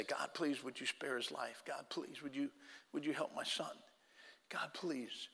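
very soft, broken pleading; barely voiced begging through tears; tearful prayer. Father kneeling by the gurney in the ambulance, soft tearful plea. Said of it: "all I could do was just cry and say".

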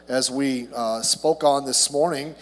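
tinny, as if through a can. Real, not acted. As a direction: voice sounding canned and metallic. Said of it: "it sounds a little like I'm in a tin can".

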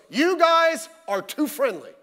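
sarcastic visitor. Retold or imitated. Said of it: "he goes".

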